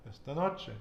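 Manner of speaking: "Esta noche" with NO punched; penultimate stress. Shown as a demonstration. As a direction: lean on the next-to-last syllable of each word in "Esta noche". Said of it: "we put the emphasis on the penultimate".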